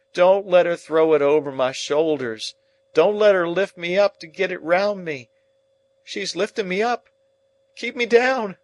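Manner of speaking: very high, loud panicked screams; screaming in terror. Acted. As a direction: scream as the ghost closes in. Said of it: "with a scream and screams out".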